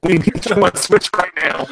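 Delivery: robotic plea; urgent robot voice. Real, not acted. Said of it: "with your robot voice right now".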